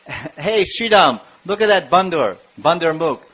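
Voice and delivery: a hint of excited cowherd boy; playful boys. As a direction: call a friend over to see something funny. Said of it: "So then Krishna boys".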